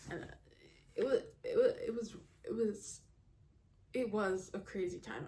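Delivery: stammering, repeating words. Recalling a crazy time before reviewing books, the speaker keeps stumbling, stuttering. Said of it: "I don't know why I'm stuttering so much".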